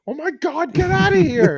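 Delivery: high mock shriek at husband; imitating wife. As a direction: squeal it like a flustered wife shooing him out. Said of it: "And then she's like".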